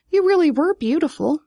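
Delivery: high, tender lament; mourning. A narrator's reading. Vivian to the withered dandelion, mourning. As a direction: lament it with lifted pitch. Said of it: "Vivian mourned".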